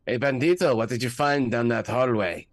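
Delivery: loud, high call. Real, not acted. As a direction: call down the hallway. Calling out down a hallway.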